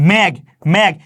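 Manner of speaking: মেঘ said slowly and clearly, the final ঘ sounded fully; clear demonstration. Shown as a demonstration. Teacher showing students the closed final consonant in মেঘ. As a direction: say মেঘ carefully so students hear the closing ঘ. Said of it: "আমি যখন বলবো মেঘ".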